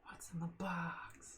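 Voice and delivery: slow, drawn-out whisper; hushed question. Acted. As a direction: whisper it slowly, as a mock-dramatic question. Jokey question about the empty box.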